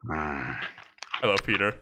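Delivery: low, creepy voice close behind; dark whisper behind you. Retold or imitated. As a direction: lurk behind them and murmur low. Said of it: "I'll quote it".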